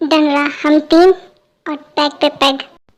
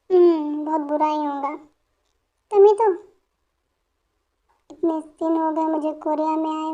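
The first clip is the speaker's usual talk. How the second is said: put-on drunk self-pity; 4 dB quieter than usual. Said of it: "Jungkook ने बहुत ज़्यादा पी ली है".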